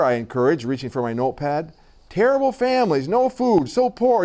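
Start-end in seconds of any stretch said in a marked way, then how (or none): 2.1-4.2 high, punched list of hardships; emphatic lamenting. A narrator's reading. Director justifying the orphanage to a reporter, high emphatic lament. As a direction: pitch each item up to press the point.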